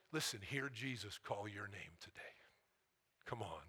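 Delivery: hushed, whispered appeal; intimate whisper. Real, not acted. Preacher urging the congregation to listen, a soft whisper. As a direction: draw them close with a whisper.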